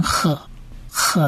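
赫 as a breathed "h", without a hard k; soft kaf sound. Shown as a demonstration. Teacher explaining kaf's sound here, isolated 赫. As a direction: sound out 赫 alone for learners. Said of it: "这里是直接发成赫".

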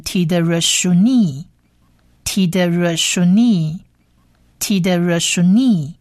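slow, even "tiderashuni", ending on long nee; teacher modelling "tiderashuni" slowly, stretched final syllable; whole-word pronunciation. Shown as a demonstration. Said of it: "整个字发起音来就变成".

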